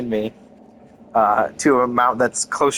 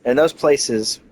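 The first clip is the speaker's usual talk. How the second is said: measured, theatrical character read; lightly acted game dialogue; dramatic game dialogue reading. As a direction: read it like a wistful forgotten stage star.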